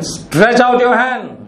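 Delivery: Jesus commanding the man with the withered hand, slow and firm. Retold or imitated. Give the order slowly and firmly. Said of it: "he commanded".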